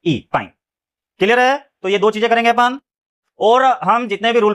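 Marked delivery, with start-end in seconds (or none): 0.1-0.5 dictating letters slowly; slow spelling out. Shown as a demonstration. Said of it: "अगर rule पता है तो ये सही से लिखेंगे".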